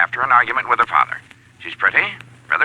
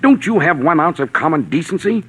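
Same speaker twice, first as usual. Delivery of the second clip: raised pitch, slowed on the father line, scolding; indignant rebuke; 5 semitones higher than usual. Acted. Man rebuking a blackmailer over a dying father, indignant. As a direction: shame him for plotting blackmail.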